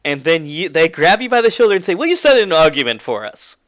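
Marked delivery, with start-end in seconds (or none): 2.0-3.6 Napoleon. Acted. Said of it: "says Napoleon".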